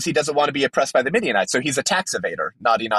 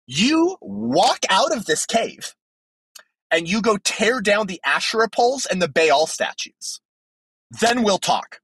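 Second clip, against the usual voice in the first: commanding God; 6 semitones higher than usual. Pretend. God's command quoted.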